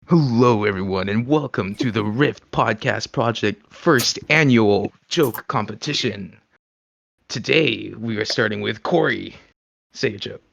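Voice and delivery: booming event host intro; announcer voice. Shown as a demonstration. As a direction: hype up the crowd like an emcee. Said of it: "I'll do, like, the announcer voice".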